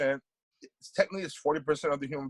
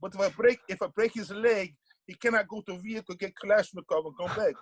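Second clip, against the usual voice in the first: bad Russian accent; 6 semitones higher than usual. Sambo teacher explaining leg locks at a seminar, bad Russian accent. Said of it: "that's a bad Russian accent".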